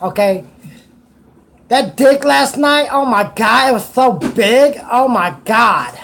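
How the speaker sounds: put-on preppy teenage girl voice; valley girl. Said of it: "You sound like a little preppy teenager".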